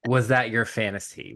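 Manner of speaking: usual speaking voice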